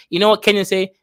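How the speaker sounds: usual speaking voice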